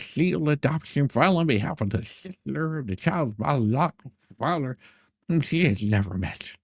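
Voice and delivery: reads the email out, a touch mocking; lightly sarcastic email read-out; reading an email aloud. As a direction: read his words out like a document. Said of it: "this is what his email was".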